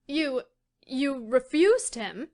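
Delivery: slow stunned question; stunned, can't take it in; blank disbelief. A narrator's reading. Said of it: "said Phil blankly".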